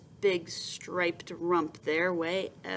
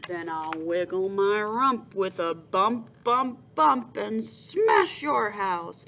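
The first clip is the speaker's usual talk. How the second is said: boar threat; 4 dB louder, slower than usual. Acted. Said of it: "answered Big Bottom Boar".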